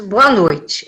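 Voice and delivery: a hint of a policeman's businesslike greeting; low, matter-of-fact mock policeman; retold policeman. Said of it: "o policial saltou e disse".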